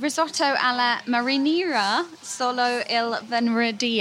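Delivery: put-on rolling the Italian names with an Italian accent; mild put-on Italian accent. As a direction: say the dish name like an Italian would, a touch hammed. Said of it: "I like your Italian accent there".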